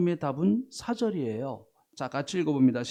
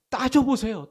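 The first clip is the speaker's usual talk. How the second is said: raised, high urging call; 6 semitones higher, 3 dB louder than usual. Real, not acted. Preacher urging the congregation to argue with God, raised. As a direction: push them to act.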